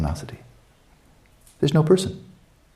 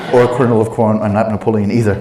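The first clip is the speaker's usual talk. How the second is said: laughing; 3 dB louder than usual. Real, not acted. Laughing through jokes.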